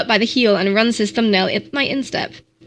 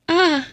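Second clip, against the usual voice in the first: groan; 6 semitones higher than usual. A narrator's reading. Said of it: "I groan".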